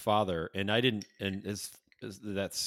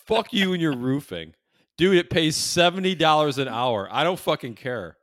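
loud, high comic outburst; hammed-up outraged rant; mock angry refusal; 7 semitones higher, 8 dB louder than usual. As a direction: refuse it indignantly, playing for laughs. Acted refusal of roofing work.

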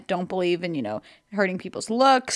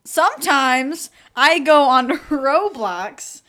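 slow, over-enunciated retake; pointedly deliberate; slower than usual. Pretend. Restarting for the camera after the slip, pointedly slow. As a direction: spell it out slowly, stressing each phrase.

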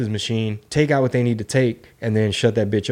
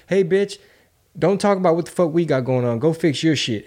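mock scolding; 4 semitones higher than usual. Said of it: "told us to our face".

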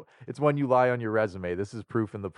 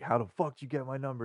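higher, quick irate demand; retold losing it; 4 semitones higher, 3 dB quieter, faster than usual. Retelling his reply to a telemarketer, mock outrage. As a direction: replay an outraged phone demand, not shouted. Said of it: "lost my fucking shit on this dude".

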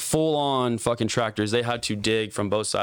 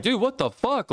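retold disbelief; 12 semitones higher than usual. Retold shock at the blankets.

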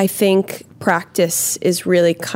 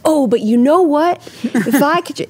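wistful inner voice; 5 semitones higher than usual. Retold or imitated. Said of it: "I was like".

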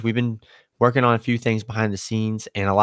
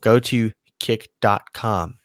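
slow, spelled-out address; slower than usual. Shown as a demonstration. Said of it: "Eh, wrong".

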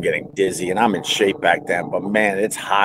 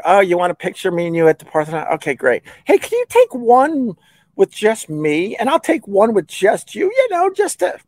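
sneaky self; 12 semitones higher than usual. Retold or imitated. Sly setup of photos, self quoted.

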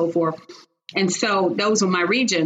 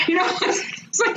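breathy laugh; 11 semitones higher than usual. Real, not acted. Laughing at the boss's remark.

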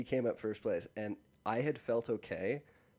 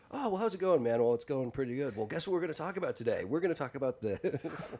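higher, chirpier podcast banter voice; mock podcast host; 4 semitones higher than usual. Mocking the Gibbons' podcast in a lightly hammed-up voice. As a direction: play both sides of a cheesy podcast chat. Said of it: "it's like".

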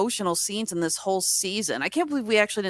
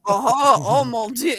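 hammed-up French exclamation, louder; mock French accent; 4 semitones higher, 6 dB louder, slower than usual. Mocking the bad French accent of the actor, in a loud fake French accent. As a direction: throw up your hands in a fake French accent. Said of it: "I know his accent is terrible".

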